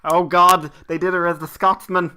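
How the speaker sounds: loud, high excited exclaim. Real, not acted. Excited over Scotsman video.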